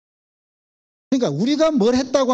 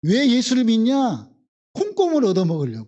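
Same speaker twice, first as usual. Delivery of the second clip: Jeolla dialect; 4 semitones higher than usual. Retold or imitated. Preacher from Namwon mimicking a Jeolla local in Jeolla dialect. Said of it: "전라도 말로 한다면".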